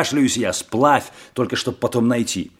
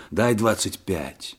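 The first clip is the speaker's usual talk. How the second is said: softly and slowly under the breath; hushed aside to a friend; quick quiet aside to Karas; whisper; 2 semitones lower, 7 dB quieter, slower than usual. A narrator's reading. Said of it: "шепнул Карасю".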